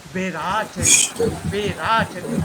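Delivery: "beraten" with each vowel fully sounded; careful, full-vowelled "be-ra-ten"; equally pronounced vowels. Shown as a demonstration. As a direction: sound out "beraten" evenly for a learner. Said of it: "All vowels are equally pronounced".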